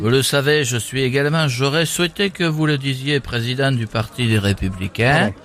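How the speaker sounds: measured mock politician with southern French accent; deadpan political impression; Eric Ciotti. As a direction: deliver it like a solemn party statement. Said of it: "on a Eric Ciotti avec nous".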